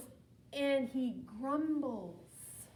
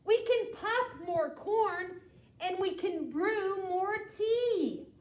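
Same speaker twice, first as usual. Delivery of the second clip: a touch higher, soothing little mouse; squeaky mouse; 5 semitones higher than usual. Acted. Mouse calming the upset bear, lightly higher. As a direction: hush the bear like a tiny mouse. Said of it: "Mouse squeaks".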